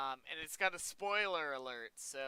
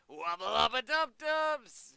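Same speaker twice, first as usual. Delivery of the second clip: terrible cartoon catchphrase impression; hammed-up cartoon catchphrase; Rick Sanchez; 6 semitones higher, 7 dB louder than usual. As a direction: belt it out higher and louder, badly imitated. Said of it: "that was a terrible impression".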